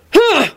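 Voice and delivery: short high "huh" of scorn; derisive snort. A narrator's reading. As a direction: snort dismissively. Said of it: "Hagrid snorted".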